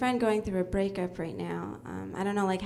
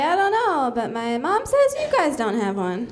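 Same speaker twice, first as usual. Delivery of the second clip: louder, higher, blurting it out; loud retort; 5 semitones higher, 7 dB louder than usual. Retold or imitated. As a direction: shout the answer proudly. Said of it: "And I'd say".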